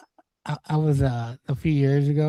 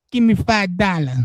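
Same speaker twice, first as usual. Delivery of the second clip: higher-pitched mock demand; retold panhandler; 5 semitones higher than usual. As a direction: imitate a pushy beggar. Repeats the man's demand.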